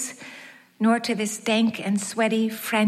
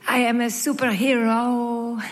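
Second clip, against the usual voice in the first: put-on Yiddish French accent. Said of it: "thick with a Yiddishy French accent".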